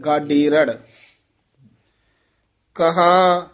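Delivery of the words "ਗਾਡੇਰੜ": ਗਾਡੇਰੜ said joined as one word; ਗਾਡੇਰੜ, Gurbani recitation, unbroken. Shown as a demonstration. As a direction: model ਗਾਡੇਰੜ with no break inside. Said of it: "ਗਾਡੇਰੜ ਨਹੀਂ ਕਹਿਣਾ".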